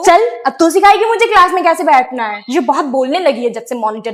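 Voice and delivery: sassy retort. Acted. Student retorts to monitor.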